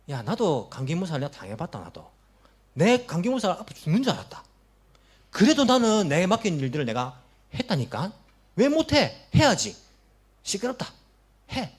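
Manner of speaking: imitating a scornful church member scolding a sick one; a hammed-up irritated rebuke; harsh scolding. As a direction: bark it out, mocking the complaint as weakness. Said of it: "이렇게 말하는 사람이 있습니다".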